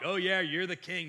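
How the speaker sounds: sarcastic, eye-rolling "oh yeah"; mock agreement. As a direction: play along with a mocking sneer. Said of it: "they're mocking Jesus".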